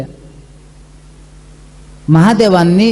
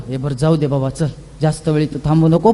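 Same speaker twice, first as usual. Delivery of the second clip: sly provoking; 5 semitones lower, faster than usual. Retold or imitated. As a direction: egg him on in a mock-gentle hush. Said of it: "मग तो मुद्दाहून त्याला म्हणतो". (मुद्दाम चिथावणारा, हळू, खालचा आवाज)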